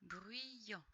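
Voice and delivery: "Bruyant" said softly, syllables drawn out; soft repeated reading. Shown as a demonstration. Teacher confirming the word for a pupil, soft "Bruyant". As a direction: repeat "Bruyant" quietly and unhurriedly. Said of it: "ça fait yan".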